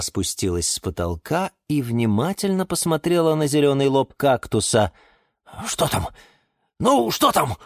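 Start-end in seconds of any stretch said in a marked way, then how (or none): 5.7-7.6 anxious asking, rising higher on the repeat; growing nervous impatience; worried. A narrator's reading. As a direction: press nervously for the answer. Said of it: "волновался он".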